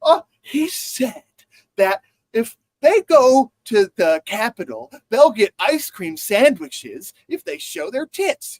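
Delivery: high, slow, scandalized anchor impression; mock incredulous newsreader. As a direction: read it out as if utterly appalled. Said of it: "they say it in that fucking voice".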